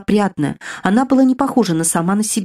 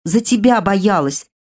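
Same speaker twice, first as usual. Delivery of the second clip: sighing admission. Acted. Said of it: "вздохнув, призналась сестра".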